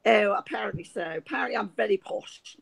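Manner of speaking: lightly put-on posh English accent. Shown as a demonstration. Agreeing she is well spoken, very posh. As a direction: play up the posh vowels a little. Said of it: "I can do very posh".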